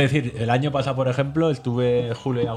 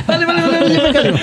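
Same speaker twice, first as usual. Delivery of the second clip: high villainous cackling laugh; mustache twirling villain; 6 dB louder, faster than usual. Acted. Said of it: "Qué risa malvada".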